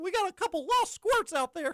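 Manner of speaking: very high, squeaky little cartoon mouse voice. Describing cruise ship announcements by a man with a voice changer; Mickey Mouse voice. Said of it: "but like in a in like a Mickey voice".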